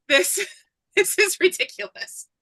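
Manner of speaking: high-pitched, breaking up with laughter; laughing in disbelief. Real, not acted. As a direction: laugh helplessly through the words. Laughing through retold complaint.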